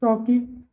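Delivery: टॉकी ending in an "ee" sound; टॉकी, like "tawkee"; "ie" read as ई. Shown as a demonstration. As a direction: say टॉकी with ई at the end. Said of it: "उसी तरह से T A L के".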